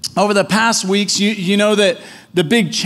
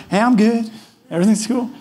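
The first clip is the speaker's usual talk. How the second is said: light, upbeat small-talk reply; casual cover-up cheer; putting on fine. Retold or imitated. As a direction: breezily pretend all is well. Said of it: "instantly we're in mode of".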